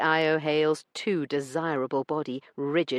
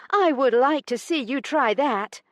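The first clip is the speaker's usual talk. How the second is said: daring challenge; 10 semitones higher, 5 dB louder than usual. A narrator's reading. Heroine dares him.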